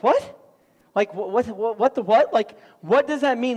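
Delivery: high "what", then stammering confusion; acted bafflement. Pastor reading an unclear verse, acted bafflement. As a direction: play up being totally stumped.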